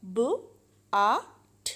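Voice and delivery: ब, आ, ठ as separate "b", short "u", "t"; sounded out. Shown as a demonstration. Teacher spelling out but by sound, ब, आ, ठ each isolated. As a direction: break but into ब, आ, ठ with gaps. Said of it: "short sound में example".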